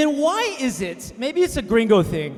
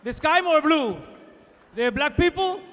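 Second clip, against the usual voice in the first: put-on Cuban exile accent. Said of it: "old exile's boasts continue".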